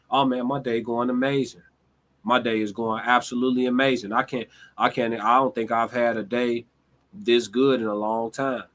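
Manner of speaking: underplay the great news; mellow. Retold or imitated. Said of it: "in a mellow ass tone".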